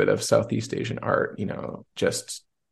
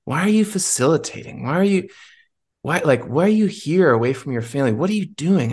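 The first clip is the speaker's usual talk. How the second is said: higher, pressing inner voice asking why; inner voice, questioning; 4 semitones higher than usual. Retold or imitated. A voice inside him at the cafe, higher and pressing. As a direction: let the tired inner voice push the questions. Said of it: "I heard a voice in me say".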